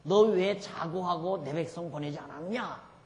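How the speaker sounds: slow, mildly acted divine reprimand; God's rebuke. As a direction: demand an answer slowly, lightly in God's role. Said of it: "하나님이 바로한테 책명해요".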